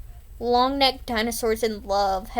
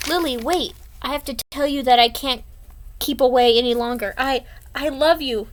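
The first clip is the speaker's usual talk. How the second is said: earnest confession; 3 semitones higher, 5 dB louder than usual. Acted. Confession voiced in comic.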